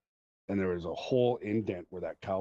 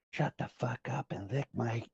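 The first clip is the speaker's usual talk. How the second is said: mom yelling across the stands, higher and drawn out; mock yell building louder and slower; retold yell; 5 semitones higher, 5 dB louder, slower than usual. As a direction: imitate an angry fan's holler. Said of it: "just yelled at her".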